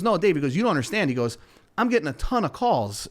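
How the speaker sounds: a hint of an insistent seller pushing back; retold son-in-law. Neighbor's son-in-law voiced on phone.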